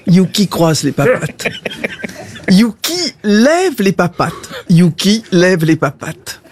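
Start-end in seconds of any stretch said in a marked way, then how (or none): 2.5-4.3 drawn-up order to a pet; dog command. Acted. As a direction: tell your dog to perform the trick. Owner gives dog a command.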